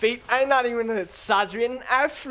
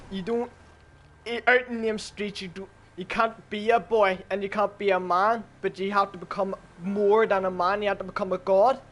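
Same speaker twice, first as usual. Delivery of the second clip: put-on Russian accent; 3 semitones lower than usual. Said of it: "in a Russian accent".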